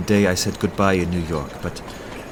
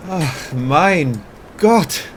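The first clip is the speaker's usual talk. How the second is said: higher and louder, slow on mein Gott; overjoyed; 9 semitones higher, 4 dB louder, slower than usual. Acted. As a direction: burst with joy at the news. Hears she cries for him.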